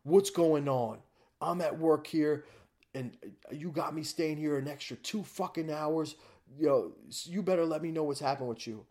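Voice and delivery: loud, angry father yelling down the phone; mock furious father on the phone; angry dad. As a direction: chew him out like a furious dad. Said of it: "He's like".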